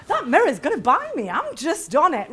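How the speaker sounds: laughing cockiness. Shown as a demonstration. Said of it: "you think".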